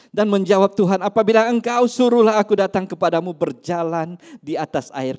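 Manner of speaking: loud, ringing sermon reading; loud scripture proclamation; preaching scripture aloud. Acted. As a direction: proclaim the verse to the congregation. Peter's plea read loudly.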